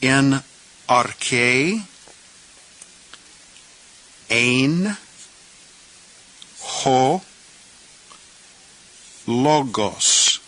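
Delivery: each word "En", "arche", "ein", "ho", "logos" said alone, arche as ar-kay; word-by-word Greek. Shown as a demonstration. Teacher sounding out John one one word by word. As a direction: pause after every Greek word. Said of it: "let's pronounce the words up to this point".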